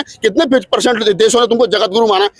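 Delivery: usual speaking voice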